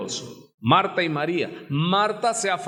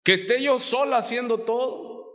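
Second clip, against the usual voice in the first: reproachful shout; 7 semitones higher than usual. Retold or imitated. Martha shouts her reproach at Jesus for leaving her alone. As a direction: hurl the complaint up at the Lord. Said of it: "reprende a Jesús".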